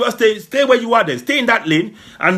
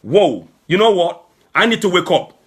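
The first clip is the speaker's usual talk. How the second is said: inner voice; 2 semitones lower than usual. Retold or imitated. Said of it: "making your conscience go".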